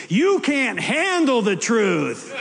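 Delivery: slow, dramatic movie-villain line; hammed-up courtroom quote, drawn out slowly; joking false quote in a mock movie voice. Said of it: "No, no, you didn't say that at all".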